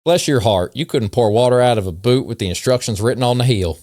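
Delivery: put-on light Southern accent for the insults; mild put-on Southern accent. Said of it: "read these in a Southern accent".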